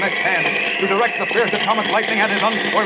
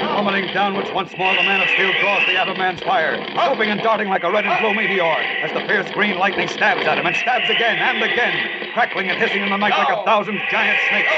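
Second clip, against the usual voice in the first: dramatic narration. A narrator's reading.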